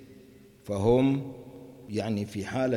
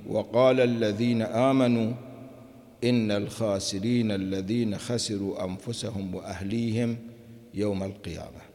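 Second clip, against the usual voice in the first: verse recitation. Acted. Teacher reciting the next verse to the class, chanted. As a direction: recite the verse, fading at the end.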